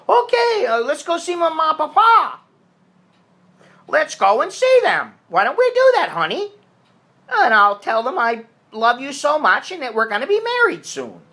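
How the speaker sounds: mock lovestruck gushing. A man gushing to his girlfriend about her parents, high and mock-lovestruck. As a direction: gush like a smitten fool. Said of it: "don't get serious and say".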